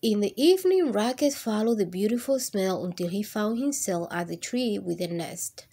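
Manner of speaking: lively picture-book reading voice; reading to children. Acted. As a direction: read it warmly to a class of kids. Reads picture book aloud.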